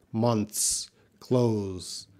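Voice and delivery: "Months" and "close" (clothes) with a faint TH; slight TH. Shown as a demonstration. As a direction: keep a light TH in "Months" and "close". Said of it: "of these sounds".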